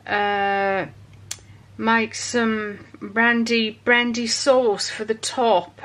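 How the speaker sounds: slow, clumsy Australian accent attempt; a weak stab at an Aussie or Kiwi accent. Shown as a demonstration. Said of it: "that was my pathetic attempt at an Australian or New Zealand accent".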